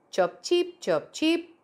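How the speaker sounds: high little bird chirps; chirping bird. Acted. Little bird chirping hello to the caterpillar, high and light. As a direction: pipe it like a small bird.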